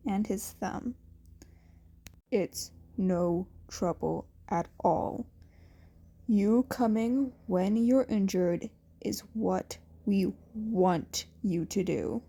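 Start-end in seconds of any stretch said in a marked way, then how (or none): 2.3-12.2 low, steady mentor voice; gruff reassurance. Acted. Aizawa calmly telling Izuku he should come. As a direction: reassure him without fuss.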